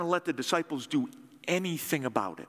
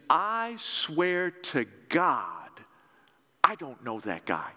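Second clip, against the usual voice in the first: sworn oath; slower than usual. Retold or imitated. Peter swearing to the accusers, slow mild oath. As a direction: swear it out slowly, then let it sink. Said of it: "what Peter is saying here is".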